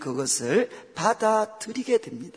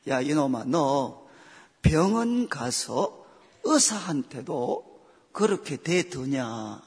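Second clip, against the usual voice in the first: God scolding; 3 semitones lower, slower than usual. Retold or imitated. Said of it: "하나님 저한테 꼭 이렇게 말씀하시는 것 같아요".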